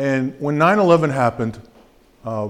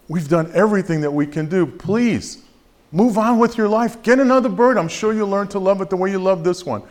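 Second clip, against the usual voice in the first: much higher and louder, nearly shouting at the owner; exasperated plea; 7 semitones higher, 3 dB louder than usual. Acted. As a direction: push her to give up, at the end of your rope. Vet begs woman to move on.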